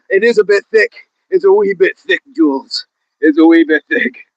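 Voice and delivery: put-on Irish brogue; Irish accent. Joking with Jules on stream, in an Irish accent. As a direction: play it as a thick Irish accent. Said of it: "Better than Brad Pitt's Irish accent".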